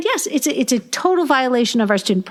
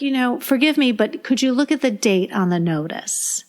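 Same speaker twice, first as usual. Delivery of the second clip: level, pleasant, no edge at all; even-toned politeness. Shown as a demonstration. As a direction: take every bit of tone out, stay polite. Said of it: "just even toned".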